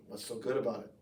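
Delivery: low, mildly grumpy retort; lightly voiced sourpuss; surly grump. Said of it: "somebody who just always seems angry".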